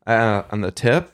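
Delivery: careful speech with sore tongue tip; burnt tongue. Real, not acted. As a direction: talk around a stinging tongue. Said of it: "So I'm talking funny".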